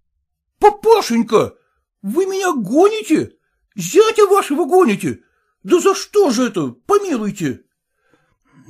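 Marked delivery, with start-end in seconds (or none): 0.1-7.6 high, tearful, pleading cry; whimpering son-in-law. Acted. Son-in-law begging his father-in-law, tearful whining. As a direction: whine like you might burst into tears.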